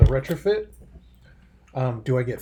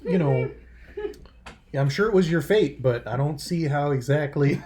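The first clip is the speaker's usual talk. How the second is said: sarcastic retort; 2 semitones higher than usual. Acted.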